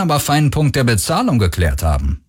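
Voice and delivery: said with a smile, lilting upward; smiling. A narrator's reading. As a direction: add it with a light smile. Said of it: "fügte sie lächelnd hinzu".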